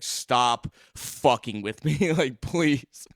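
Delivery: slow, drawn-out mock exasperation; exasperated pleading. Friend holding him up begs him to stop, mock exasperated. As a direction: imitate someone at wit's end, stretching the words. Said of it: "like a cat who's going insane".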